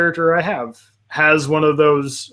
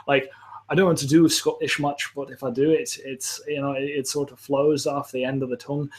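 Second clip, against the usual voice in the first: casual attempt at a Scottish accent; 4 dB quieter than usual. Shown as a demonstration. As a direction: ease softly into a Scottish accent. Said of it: "That was really good".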